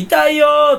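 high, loud, deadpan "ouch"; a monotone wail of pain; flat fake cry of pain. Showing the stock voice that comes out when hurt, a flat wail. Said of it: "棒読みみたいな声出るよ".

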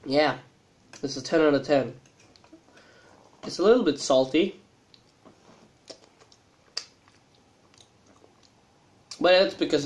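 talking with mouth full; eating between words; chewing noodles. Real, not acted. Seen 2: Mouth moving between bites; noodles lifted to mouth at end.

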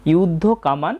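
"কামান" closed on n without a vowel; half-n ending. Shown as a demonstration. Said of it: "নটা অর্ধেক উচ্চারণ করেছি".

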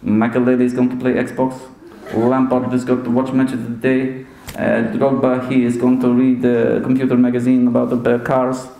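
put-on level, deliberate Portuguese-accented manager; imitated manager listing players one by one; measured put-on accent, matter-of-fact; Jose Mourinho. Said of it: "Jose sent them all to bed".

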